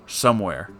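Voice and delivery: ordinary delivery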